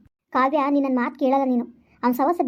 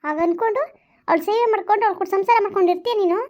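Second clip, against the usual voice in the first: angry accusation; 5 semitones higher than usual. Acted. Accusing lover of staying with wife.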